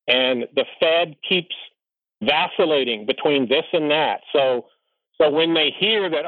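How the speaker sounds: ordinary talk, nothing marked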